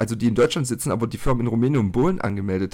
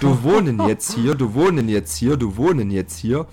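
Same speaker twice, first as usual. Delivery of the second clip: loud, insistent broken German repeated; firmly telling her where she lives, lightly accented; loud mock Polish-accented German; 6 dB louder than usual. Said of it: "dann auf Deutsch".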